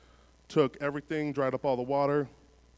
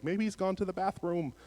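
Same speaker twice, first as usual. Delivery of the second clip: mock taunting; 4 semitones higher than usual. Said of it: "him saying something like".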